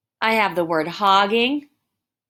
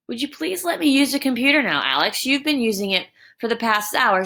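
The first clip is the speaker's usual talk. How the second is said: kind request. Shown as a demonstration. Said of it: "it is the kinder moment".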